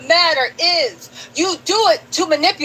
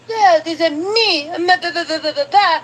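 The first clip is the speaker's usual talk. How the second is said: mock Belizean accent. Streamer mocking a rapper's interview voice in a light Belizean accent. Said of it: "he was talking that Belizean mess".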